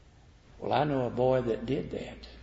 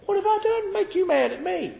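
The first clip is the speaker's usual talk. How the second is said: put-on very high, wounded child's plea; hurt little boy; 3 dB louder than usual. Young David pleading with his angry brother, very high. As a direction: plead innocence like a small boy. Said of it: "That's what the boy said".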